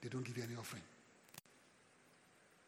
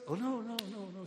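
high laughing refusal; 8 semitones higher, 4 dB louder than usual. Retold or imitated. Pastor refusing kids' plea.

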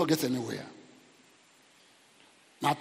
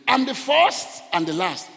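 loud, raised preacher's declaration; proclaiming scripture; 5 semitones higher, 6 dB louder than usual. Retold or imitated. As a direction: declare it in a higher, forceful voice. Proclaims the words of Jesus.

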